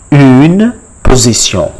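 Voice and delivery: "Une position" with French rounded u; French pronunciation. Shown as a demonstration. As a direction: model "Une position" ending in nasal -syon. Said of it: "a position in French".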